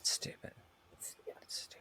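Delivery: barely voiced, under the breath; very soft dismissive aside; muttered aside. Real, not acted. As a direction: whisper it to yourself. Muttered verdict under the others' talk.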